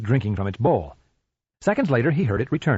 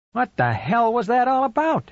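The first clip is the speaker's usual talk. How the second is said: higher, exasperated demand; 12 semitones higher than usual. Acted. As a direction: throw the question at the dog, fed up. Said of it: "he demanded".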